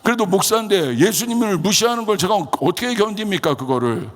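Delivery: high, heated self-justification; retold huffing indignation. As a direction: re-enact fuming as an insulted pastor. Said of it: "제가 막 씩씩거렸어요". (씩씩거리며 억울해하는 재연)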